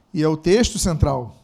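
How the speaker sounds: ordinary delivery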